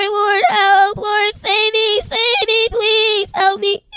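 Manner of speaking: slow, pleading cry for rescue; tormented soul. Retold or imitated. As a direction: drag out a desperate plea.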